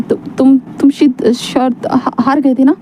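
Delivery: slow, halting, nervous stammer. Acted. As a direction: force the words out haltingly, afraid to ask. Wing nervously asks Wang Ji.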